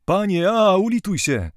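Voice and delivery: high, loud wailing for mercy; moaning plea. A narrator's reading. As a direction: wail it, begging for your life. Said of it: "jęczeli niewolnicy".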